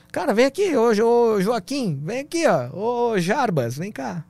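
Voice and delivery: high, loud calling to colleagues. Retold or imitated. Policeman calling fellow soldiers over, loud high shout. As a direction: shout across the camp for your buddies. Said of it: "E aí ele".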